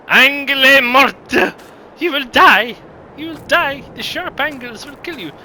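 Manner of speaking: high, loud hammed-up warning, slow on the first words; mock dramatic doom. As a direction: play it like a cursed prophecy. Mock warning about sharp corners.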